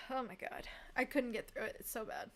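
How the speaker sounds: quiet exhausted verdict; defeated murmur. Real, not acted. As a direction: trail off in defeat. After a sigh, defeated.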